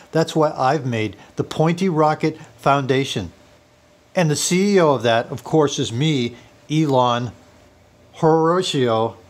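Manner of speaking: mock South African accent, measured patter; South African fake voice. Faux Elon Musk confiding in viewers about his break-in, fake South African accent. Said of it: "in my sexy South African fake voice".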